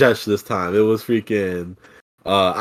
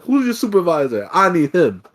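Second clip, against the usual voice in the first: higher, pushy manager request; Karen demand; 7 semitones higher than usual. Retold or imitated. Customer demanding a supervisor, pushy Karen. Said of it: "You're a true Karen".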